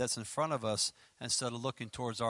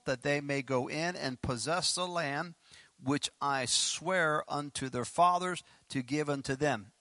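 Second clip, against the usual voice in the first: measured, emphatic Bible reading; scripture reading. Acted. Preacher reading verse ten to the congregation, deliberate scripture reading. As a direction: read the verse out, slowing down toward its close.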